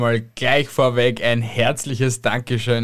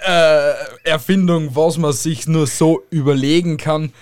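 laughing; 4 semitones higher, 4 dB louder than usual. Real, not acted. Laughing at dumb invention.

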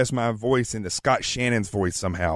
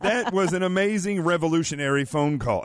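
mock announcer hype, pitched higher; Scott Shannon; 4 semitones higher than usual. Host imitates radio legend signing off, announcer impression. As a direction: sell it like a big radio voice-over. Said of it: "that's my Scott Shannon interpretation".

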